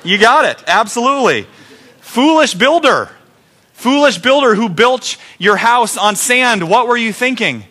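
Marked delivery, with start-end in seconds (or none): 2.0-7.7 preacher chiding the builder on sand; mock scolding. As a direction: chide him like a parable teacher.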